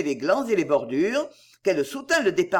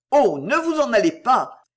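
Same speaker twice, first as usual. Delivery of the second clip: louder, higher passionate cry; passionate plea; 4 semitones higher, 5 dB louder than usual. Acted. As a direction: beg her not to leave. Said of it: "d'un ton passionné".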